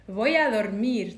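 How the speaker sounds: 'Voy a dormir' quoted with a Spanish ring; Spanish example. Shown as a demonstration. Teacher quoting the Spanish phrase again. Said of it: "in Spanish they say".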